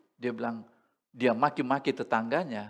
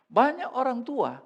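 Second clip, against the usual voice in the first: raised, louder preaching; emphatic; 10 semitones higher, 5 dB louder than usual. Real, not acted. Preacher to congregation, emphatic and louder. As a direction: hit it hard from the pulpit.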